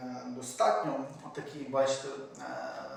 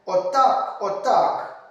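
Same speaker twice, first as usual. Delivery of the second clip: a high, loud battle cry of approval; fierce urging; 5 semitones higher, 8 dB louder, much slower than usual. Acted. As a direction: egg the fighters on at full voice. Haidamak leader urges the fighters. (гучний схвальний вигук)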